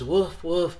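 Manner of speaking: mild storybook scream for help; retold scream. Boy in the fable raising the alarm, mock scream. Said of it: "he screams".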